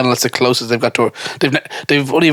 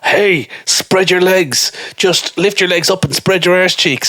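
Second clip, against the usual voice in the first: mock sleazy lad; 5 semitones higher, slower than usual. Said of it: "he's like".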